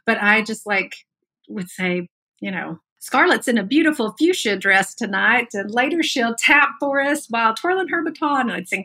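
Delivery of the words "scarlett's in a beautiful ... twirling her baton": put-on pageant emcee with a Southern accent. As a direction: announce it like a Southern pageant host. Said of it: "Your Southern accent just came out".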